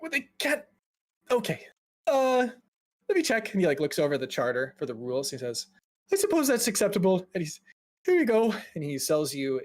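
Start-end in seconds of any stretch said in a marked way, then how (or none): 0.0-3.5 high, dithering nervous clerk; flustered, pitched well up; anxious mage. Acted. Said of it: "he's just very elevated, very anxious". 6.1-7.2 high, quick, reluctant clerk; fussy, hurried agreement; anxious mage. Acted. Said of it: "he's just very elevated, very anxious". 8.1-8.5 high, nervous handover; lightly flustered clerk, pitched up; anxious mage. Acted. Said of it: "he's just very elevated, very anxious".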